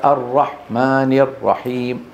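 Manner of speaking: الرحمن الرحيم with the breath of ح cut short; weak-breath Ha error. Shown as a demonstration. Teacher showing students the mistake, weakly breathed ح. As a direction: give ح in الرحمن too little breath. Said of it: "ضعف همسها".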